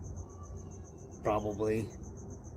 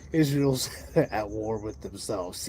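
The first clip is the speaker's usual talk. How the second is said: quoting with a laugh; 4 semitones lower, slower than usual. Retold or imitated. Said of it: "He's all".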